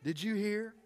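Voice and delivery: hammed-up hushed dismay; mock aghast gossip. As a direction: hush it like scandalized church lady. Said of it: "and then the person".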